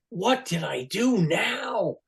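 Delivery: imitated worried fan; mock panic. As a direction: fret as if in big trouble. Retold panic at star's angry reaction.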